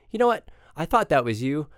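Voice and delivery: a fan who just realized who it was; excited fan. Retold or imitated. Stranger recognizes him in message.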